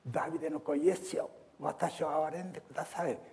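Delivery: high, fast plea; the preacher urging the church to cry out, high pleading call. Retold or imitated. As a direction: call out earnestly to Jesus. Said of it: "呼び求めたい".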